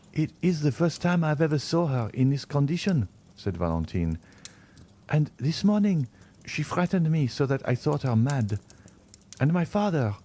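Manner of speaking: lightly voiced Valentine, eager; lightly voiced young woman. A narrator's reading. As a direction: greet the doctor with gentle eagerness. Valentine describing her fright.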